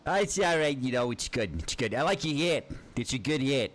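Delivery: high-pitched silly small talk; high, playful compliment; put-on friendly voice. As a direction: chat in a high put-on character voice. Chats to player in put-on voice.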